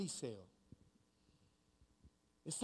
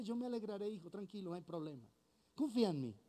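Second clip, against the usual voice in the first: tender reassurance; faster than usual. Acted. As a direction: soothe a frightened child. God comforting his anxious son.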